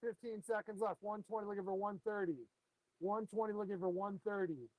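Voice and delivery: steady auctioneer calling bids; auction bid spotter. Acted. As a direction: call out the bids, auction rhythm. Runs the live fish auction.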